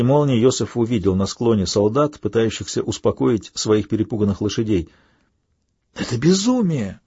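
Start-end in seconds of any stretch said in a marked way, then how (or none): 5.9-7.0 breathless, higher other voice; panting shaky. A narrator's reading. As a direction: gasp it out, out of breath. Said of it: "задыхаясь, проговорил Матья".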